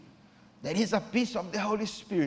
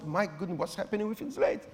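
softer, quick muttered aside; astonished aside; 7 dB quieter, faster than usual. Retold or imitated. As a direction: think it aloud to yourself. Pastor's inner astonished thought.

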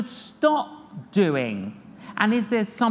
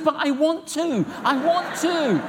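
high plaintive plea, well above normal; pleading; 6 semitones higher than usual. Retold or imitated. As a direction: beg like a child not wanting to stop. Pleading with the Lord.

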